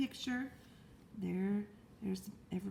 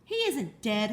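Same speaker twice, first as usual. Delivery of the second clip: hollered; 5 dB louder, slower than usual. Acted. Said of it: "hollered Zuckerman".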